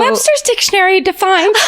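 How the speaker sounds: pompous speech-opener voice, pitched high; mock formal speech opening. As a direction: ham up the stale speech cliché.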